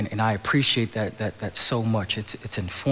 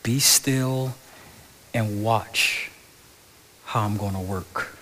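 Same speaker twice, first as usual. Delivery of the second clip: calm voice of God; slower than usual. Retold or imitated. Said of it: "He told the people to be still".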